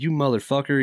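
mock-outraged buddy, not shouted; retold indignation. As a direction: retell a friend's cussing-out. Buddy's angry call, retold.

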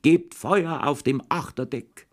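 high, slow, drawn-out order; mock naval command, high and slow; shouted command. A narrator's reading. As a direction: bark it like a boy playing ship's captain. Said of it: "hat geschrien".

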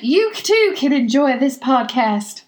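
hammed-up TV pitchman; infomercial. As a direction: sell it like a late-night ad. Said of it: "I don't know where my accent".

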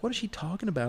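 high, puzzled question; baffled lady. Retold or imitated. Old lady asks about the truck, high and puzzled. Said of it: "she's like".

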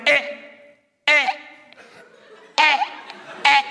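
short strained grunts like lifting a heavy bar; imitating an old man straining under weights. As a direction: grunt as if pushing up a bench press. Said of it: "this noise that he makes".

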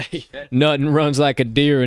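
put-on country accent with a laugh; Southern accent, chuckling through it; southern drawl. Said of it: "country accent, my southern drawl".

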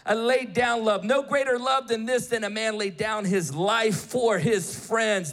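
usual speaking voice

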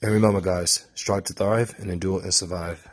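the motto in a light British accent; a hint of a British accent on the sign-off. Real, not acted. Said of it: "in my British accent".

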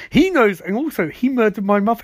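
high, loud protest; hammed-up grievance, pitched well up; mock anguished insistence. Barry tells Iris about Harrison Wells, mock anguished outburst.

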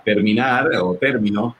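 término stressed on the first syllable, TÉR-mino; stress demo. Shown as a demonstration. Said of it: "si le ponemos la tilde en la primera".

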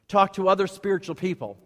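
"spiritual" stressed as the key word. Real, not acted. Pastor advising church whom to consult, stress on "spiritual". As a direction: lean firmly on "spiritual". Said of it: "I need to emphasize the word spiritual".

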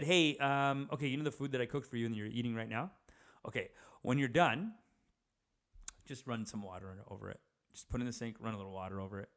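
imitating a mild, polite request, softening at the end; nice, gentle mom. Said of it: "She said it so nice".

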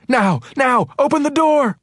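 high, loud frantic scream. A narrator's reading. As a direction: scream the order in desperation. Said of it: "Ginny screamed again".

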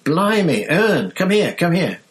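high, loud call to Ern; high excited shout across the bus. Acted. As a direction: yell for your mate, thrilled. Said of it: "Stan shouted".

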